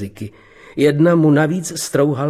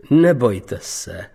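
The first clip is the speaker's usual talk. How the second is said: smiling; much slower than usual. Acted. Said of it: "usmál se vydavatel".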